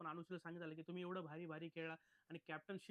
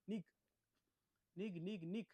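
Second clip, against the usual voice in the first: imitating a stern host; 3 dB louder than usual. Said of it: "तिला तिथून हाकलून दिलं".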